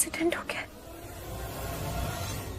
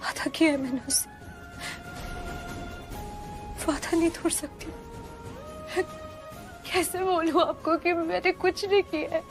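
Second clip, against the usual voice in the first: tearful. Acted. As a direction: cry through the confession. Tearful monologue alone.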